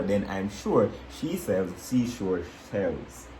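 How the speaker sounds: slow, every word spelled out clearly; slow careful reading. Shown as a demonstration. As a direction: read it slowly, to demonstrate. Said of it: "I'm gonna show you how".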